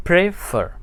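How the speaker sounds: प्रेफर in two separate beats; teacher's syllable-by-syllable प्रेफर; split into syllables. Shown as a demonstration. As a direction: break प्रेफर after प्रे with a clear gap. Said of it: "इसको हम बीच में तोड़ सकते हैं".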